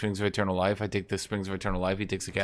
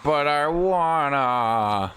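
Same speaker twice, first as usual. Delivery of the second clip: whiny AI voice; 5 semitones higher, 5 dB louder, much slower than usual. Retold or imitated. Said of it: "he's sitting there like".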